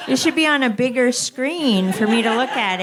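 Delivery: mock compliment breaking into laughter; laughing through quote. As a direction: giggle through the flattering line. Quoting people flattering her face.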